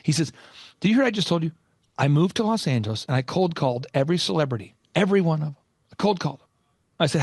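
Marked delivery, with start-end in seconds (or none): 0.8-6.5 imitated adversarial coach, deliberate phrasing; lightly voiced intense mentor; intense Michael Levine. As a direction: challenge the listener, then declare it firmly. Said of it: "almost like an antagonistic, adversarial, intense coaching".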